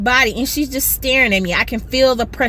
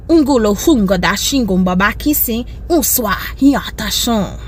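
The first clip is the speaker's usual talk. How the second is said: lightly voiced made-up African chant; mock incantation; 4 semitones lower than usual. To the rude lady in the aisle, a lightly voiced mock curse. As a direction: cast a fake curse with intensity. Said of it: "I made it up".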